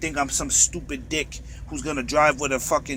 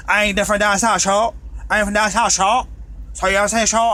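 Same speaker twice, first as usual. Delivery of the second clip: mock Southern accent; 4 semitones higher, 5 dB louder than usual. Ranting trucker imitating a Georgia local's Southern accent. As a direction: play up a Georgia accent to show you're not from there. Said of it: "they can hear from my accent".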